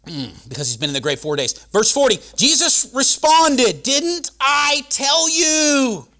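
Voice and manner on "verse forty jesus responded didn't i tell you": loud, high preacher's cry; preaching at full force. Acted. Preacher proclaiming to the congregation, full force. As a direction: proclaim it over the crowd.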